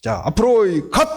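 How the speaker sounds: barked military command; drill instructor. Acted. Instructor ordering crab recruits to march forward, drill-instructor command. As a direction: call recruits to attention in short bursts. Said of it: "교관이 빨간 모자를 딱 쓰고".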